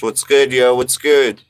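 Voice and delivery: putting on a show. Acted. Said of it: "I just was putting on a show".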